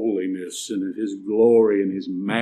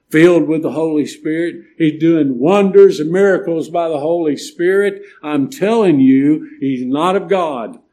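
louder, higher pulpit warning; forceful preaching; 5 semitones higher, 8 dB louder than usual. Real, not acted. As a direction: drive the warning home from the pulpit.

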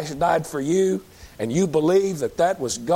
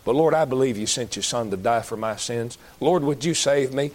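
humble prayer; 4 semitones lower than usual. Pretend. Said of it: "Cry out to God and say".

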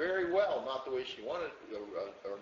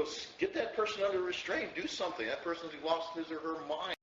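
urgent mock alarm; 2 semitones higher than usual. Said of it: "we'd go".

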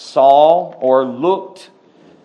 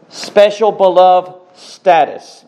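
emphatic repeat; 2 semitones higher, 6 dB louder than usual. Real, not acted. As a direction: proclaim it again with more force. Preacher repeats phrase for emphasis.

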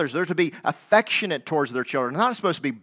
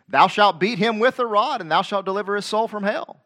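louder, raised King James reading; scripture reading; 5 semitones higher, 3 dB louder than usual. Acted. Preacher reading King James verse to congregation, proclaiming.

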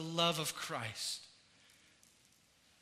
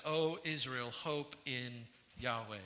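lower, softer, slowed verse; quiet reading; 5 semitones lower, 6 dB quieter than usual. Acted.

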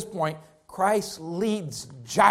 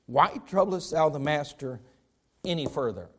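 cold; 6 semitones lower than usual. Retold or imitated. Messenger telling Jairus to give up, cold and low. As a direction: say it like a messenger who has stopped caring. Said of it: "Can you be any more cold than that?".

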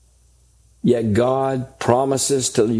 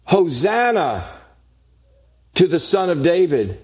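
mild retold shout; 4 semitones higher than usual. Preacher quoting children shouting in the temple, mild retold shout. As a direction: call it out higher, without really shouting. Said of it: "these little children were shouting".

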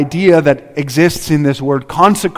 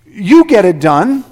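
mock lazy prayer; 4 semitones higher, 4 dB louder than usual. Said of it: "It's like we say".

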